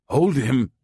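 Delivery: high, loud urgent demand; insistent. A narrator's reading. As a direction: insist to the crowd. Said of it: "he insisted".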